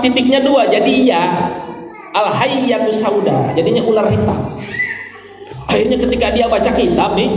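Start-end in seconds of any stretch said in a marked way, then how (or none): 2.1-3.5 "Al-hayyatu sauda" said slowly with doubled y; misreading. Shown as a demonstration. Preacher explains the two dots that turn b to y, misreading. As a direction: draw out "Al-hayyatu", y sound replacing b. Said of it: "dia bacanya jadi dua".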